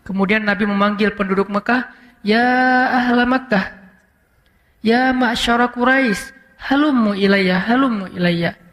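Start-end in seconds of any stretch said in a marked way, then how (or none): 2.3-8.6 gentle calling out. Retold or imitated. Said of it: "Nabi kalau ngomong tuh lembut".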